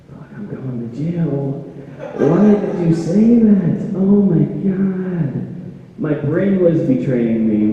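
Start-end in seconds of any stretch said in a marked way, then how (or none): 0.1-6.0 self-scolding groan. Acted. Berating himself after blunder.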